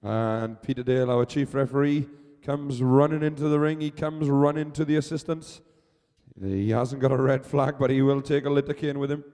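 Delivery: projected ringside announcer voice; live sports commentary. Real, not acted. Commentator describing the chief referee running in, projected announcing.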